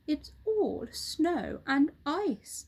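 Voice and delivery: a hint of a grave bird; roly-poly bird. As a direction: paint the cold for the monkey.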